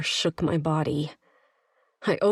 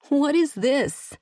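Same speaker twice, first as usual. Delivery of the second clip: high, louder startled ask; startled question; 9 semitones higher, 5 dB louder than usual. A narrator's reading. Woman catching his bloody device, startled high question. Bloody object flung at her.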